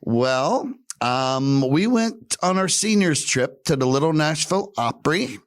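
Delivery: high, lightly voiced grandma; chirpy high old lady telling a story; sweet old lady. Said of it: "And she goes".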